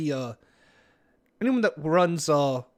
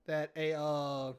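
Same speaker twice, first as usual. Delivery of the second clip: put-on Valley Girl voice; 5 dB quieter, slower than usual. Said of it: "Valley Girl voice".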